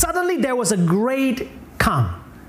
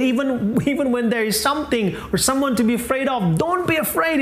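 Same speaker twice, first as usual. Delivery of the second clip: earnest appeal in a raised pitch; pleading Jesus; 4 semitones higher than usual. Acted. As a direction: urge them on like an exasperated teacher. Acts Jesus appealing to disciples.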